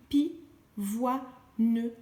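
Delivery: "pi, voix, ne" split into three separate beats; syllable by syllable. Shown as a demonstration. Teacher splitting pivoine into syllables for a child. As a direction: read "pi, voix, ne" with a gap after each syllable. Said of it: "Je lis".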